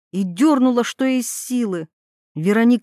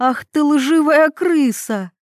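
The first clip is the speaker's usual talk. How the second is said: higher, louder, slower insult; angry shout; 5 semitones higher, 4 dB louder, slower than usual. Acted. Mila shouts at the lying Veronika, higher, louder and slower. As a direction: hurl the insult as she jumps up in fury. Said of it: "закричала она".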